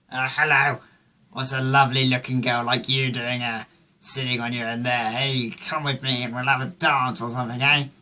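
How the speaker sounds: mock-posh English chat-up line; lightly hammed-up posh flirting; posh accent. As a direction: imitate a tipsy upper-class charmer. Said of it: "Still talking posh".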